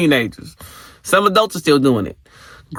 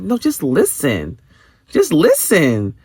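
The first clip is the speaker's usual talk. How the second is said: pleading slowly; 2 semitones higher, slower than usual. Retold or imitated. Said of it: "and it's like".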